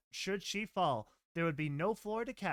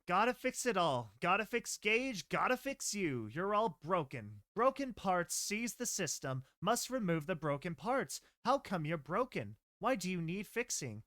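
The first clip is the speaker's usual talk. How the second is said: obsessive unhinged mare. Acted. Gentle obsessing over broken ponies.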